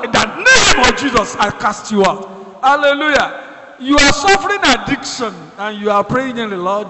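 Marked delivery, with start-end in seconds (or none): 0.0-2.3 firm command. Shown as a demonstration. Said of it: "You have to".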